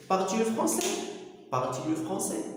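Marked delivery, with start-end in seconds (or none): 0.1-0.9 Moroccan teacher saying French question. Shown as a demonstration. Teacher demonstrating the French question to students. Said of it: "شنو غادي نقولو؟".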